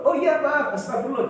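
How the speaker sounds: startled apology. Retold or imitated. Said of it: "duduk langsung Ustaznya".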